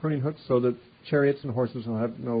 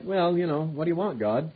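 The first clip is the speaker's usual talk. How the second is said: snide. Retold or imitated. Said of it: "they act sort of snidely".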